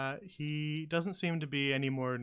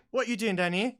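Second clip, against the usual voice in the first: gruff goblin challenge, a bit louder; goblin guard challenging; 9 semitones higher, 8 dB louder than usual. Acted. Goblin guard confronting intruders in the cellar, gruff challenge. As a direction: bark it like a startled goblin guard. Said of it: "and says".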